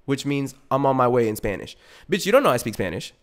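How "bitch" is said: usual speaking voice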